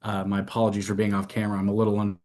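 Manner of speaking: distant, away from the mic; speaking off mic, sound far away; off microphone. Real, not acted. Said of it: "You're off microphone also".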